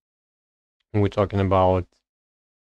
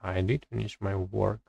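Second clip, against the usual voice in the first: "did" made the prominent word; stress on did; 6 dB quieter than usual. Shown as a demonstration. Learner reading a grammar example aloud, stress on "did". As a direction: put the emphasis on the auxiliary "did". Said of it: "auxiliary verb to stress".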